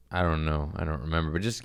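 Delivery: whispered, low. Acted. Repeating himself to the audience, whispered. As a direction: drop it to a whisper.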